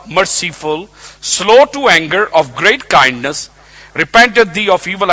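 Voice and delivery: indignant, forceful complaint to God; angry Jonah. Acted. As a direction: argue back at God, with a touch of anger. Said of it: "He's going mad at God now".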